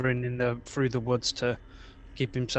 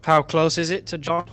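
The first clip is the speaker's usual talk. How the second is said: louder repeat; 3 semitones higher, 5 dB louder than usual. Real, not acted. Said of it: "Say again, over".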